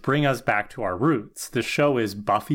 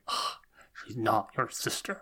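spitting out words; 2 semitones lower, 9 dB quieter than usual. Retold or imitated. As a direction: imitate forcing the words out with disgust, softly. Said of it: "spits out the words".

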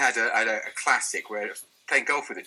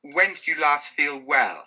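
slow, deliberate question; 2 semitones higher, slower than usual. Shown as a demonstration. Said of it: "magic question is".

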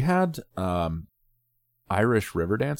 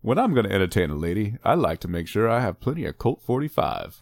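awkward suitor impression. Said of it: "an awkward impression".

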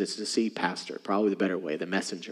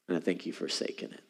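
hushed; 5 semitones lower, 10 dB quieter than usual. Acted. Quiet rebuke to church.

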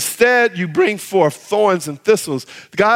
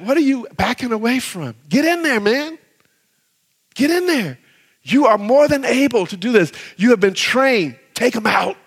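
a hint of a pushy coach, pitched higher; instructor urging; 4 semitones higher than usual. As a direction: push the trainee back in. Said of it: "my instructor used to say that".

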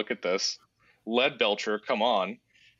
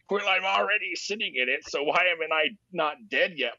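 lightly voiced mocking visitor, pitched up; high taunting voice; 5 semitones higher than usual. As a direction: taunt back in a higher voice. Taunter answers back in retold argument.

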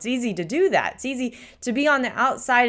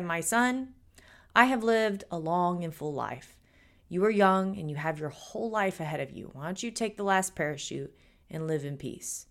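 soft, tender fatherly priest voice, quieter; a kindly priest calmly giving up his place; gentle priest; 4 semitones lower, 6 dB quieter than usual. Acted. Priest to the little boy on the failing plane, soft and tender.

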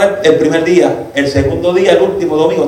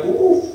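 pained gasp; 3 dB quieter than usual. Retold or imitated. Imitates being hit by a bolt.

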